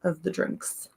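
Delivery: slightly raspy, worn voice. Real, not acted. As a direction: talk through a raspy throat. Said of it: "with my raspy voice".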